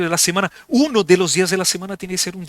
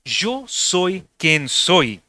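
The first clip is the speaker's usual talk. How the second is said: voz de Dios; much slower than usual. Acted. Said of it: "Y él dice así".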